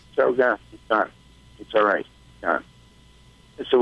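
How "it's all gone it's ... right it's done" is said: calm reassurance. Retold or imitated. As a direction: gently break the news. Vet gently tells owner cat died.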